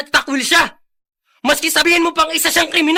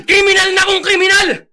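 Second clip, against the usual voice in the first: angry retort; 4 semitones higher, 3 dB louder than usual. Acted. Friend retorting angrily.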